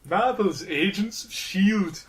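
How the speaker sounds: slow Geordie announcer; Geordie accent. Pretend. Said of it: "announces TV shows in his accent".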